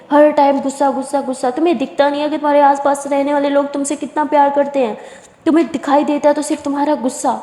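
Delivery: a mother losing her temper at her daughter; scolding shout. Acted. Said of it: "चिल्लाते हुए".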